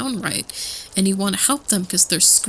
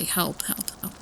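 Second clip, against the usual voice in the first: eerie plea; 2 semitones lower, 10 dB quieter than usual. Retold or imitated. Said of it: "They can only say".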